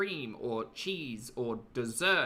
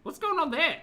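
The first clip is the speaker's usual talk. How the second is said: amazed shriek; 7 dB louder than usual. Real, not acted. Amazed by friend's burps.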